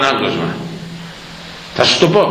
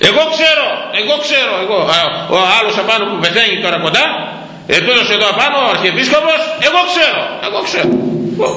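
boastful archbishop; 8 semitones higher, faster than usual. Retold or imitated. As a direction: puff yourself up, I know. (καυχησιάρικη μίμηση με ψηλή φωνή)

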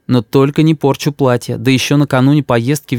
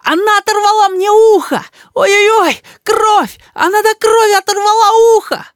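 very high, crying wail; boy howls that his ear is torn off. A narrator's reading. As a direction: howl and sob about the ear. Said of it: "завопил не своим голосом Рис".

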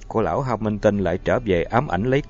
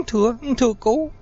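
terrified stammer; 12 semitones higher than usual. A narrator's reading. Choked man pleads to priest.

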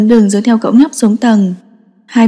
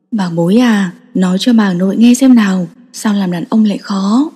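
tender grandmother; 2 semitones lower than usual. Acted. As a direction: gently draw it out of him. Grandmother coaxes crying grandson.

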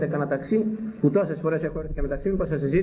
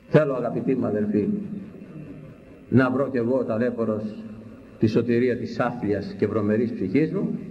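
usual speaking voice

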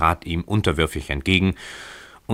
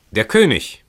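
mildly raised street shout; crowd's cry; 6 semitones higher, 5 dB louder than usual. A narrator's reading. Crowd in the street announces the king, raised cry. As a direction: call it out like an excited onlooker, higher and louder. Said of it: "hörte man jetzt von der Straße her das laute Geschrei".

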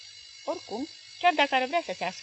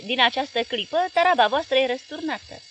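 louder, higher menacing decree; harsh threat; 4 semitones higher, 9 dB louder than usual. Acted. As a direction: announce it like a conqueror. Armed men ordering them out.

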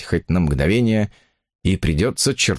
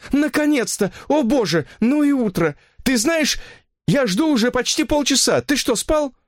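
much higher, breathless woman's voice; anxious woman. Acted. Mistress phoning her lover, high and anxious. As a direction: play the fretting mistress, voice pitched high.

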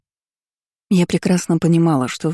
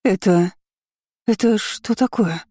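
higher, shocked demand; outraged aunt; 5 semitones higher than usual. Acted. The aunt confronts the heroine, higher and outraged. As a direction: demand it in disbelief. Aunt sees injured daughter.

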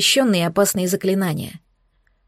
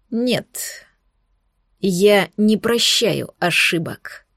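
mustache twirling villain; much slower than usual. A narrator's reading. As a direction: deliver it slowly and coldly. Villain before killing.

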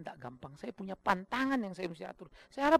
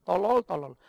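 mild mock yell; lightly acted cursing, a bit louder; retold inner shout; 7 dB louder, slower than usual. Pastor's inner man cursing a thin envelope, mild mock shout. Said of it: "Itu manusia saya teriak".

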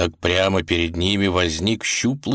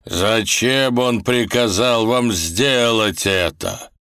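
put-on old man voice; 4 semitones higher, 3 dB louder, slower than usual.

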